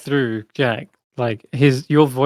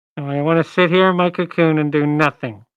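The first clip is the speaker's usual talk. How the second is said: muffled, smothered voice, as if from inside. Storyteller voicing a character hidden in a cocoon, answering the players, muffled voice. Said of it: "You hear this voice is very muffled".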